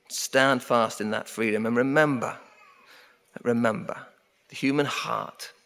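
ordinary talk, nothing marked

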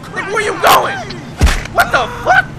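loud, high calling after someone; outraged yell. Pretend. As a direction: shout after someone getting away. Yelling after someone getting away.

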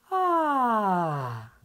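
a long descending chest-voice "Ah"; demo vocal sigh. Shown as a demonstration. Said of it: "vem pro grave".

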